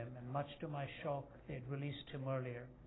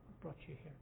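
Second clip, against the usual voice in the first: much softer, almost to himself; hushed repeat; 11 dB quieter than usual. Shown as a demonstration. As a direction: let it fall away, brought still leaned on. Soft repeat of the question.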